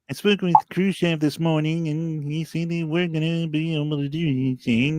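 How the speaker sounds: Kennedy impression. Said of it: "That's a weird Kennedy impersonation".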